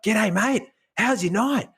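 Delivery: high, loud bright-eyed greeting; chirpy teen greeting a stranger; cheery skater kid. Retold or imitated. Skater kid greets tired shopper, high and chirpy. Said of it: "one guy's like".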